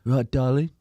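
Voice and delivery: lightly Essex, cheeky greeting; a hint of Essex geezer calling her darling; Essex bloke greeting. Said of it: "But he's more Essex-y".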